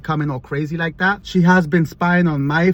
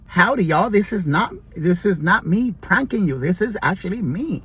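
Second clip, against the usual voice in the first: amateur imitation of a country accent; attempted country accent; 4 semitones higher than usual. Wife denies pranking her husband, imitated country accent. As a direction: try a country twang without really having it. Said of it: "can't speak like that 'cause I'm not country".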